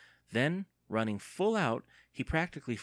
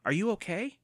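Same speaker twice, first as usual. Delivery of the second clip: high, anxious repeat; worried cry; 11 semitones higher, 3 dB louder than usual. A narrator's reading. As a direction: ask again urgently. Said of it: "Evan cried".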